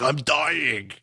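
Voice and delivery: drawn-out, hammed-up groan of suffering; mock agony. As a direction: moan it in exaggerated exhaustion. Retold cries of exercisers in agony.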